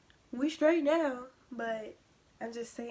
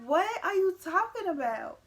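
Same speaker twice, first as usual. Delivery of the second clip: retold baffled protest; 7 semitones higher, 7 dB louder than usual. Her confused reply to mom.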